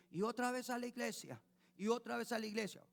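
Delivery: put-on high, whiny kid complaining about church; whining child. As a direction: whine it like a bored teenager.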